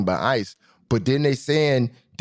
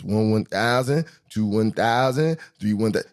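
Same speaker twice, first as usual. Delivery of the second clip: counting off seconds. Shown as a demonstration. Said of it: "See where we at with it?".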